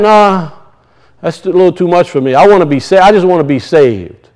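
mock reluctant churchgoer, dropping low and soft; a hint of lazy believer. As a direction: play the shrug of someone who only wants saving. Mock churchgoer dodging life plan.

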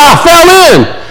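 high-pitched answer from below; play-acted plaintive reply; acted calling up. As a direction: call it up out of a hole. Man calls up from hole.

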